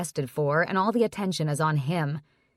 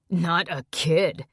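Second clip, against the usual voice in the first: incredulous laugh; slower than usual. A narrator's reading. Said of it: "Bishop laughs incredulously".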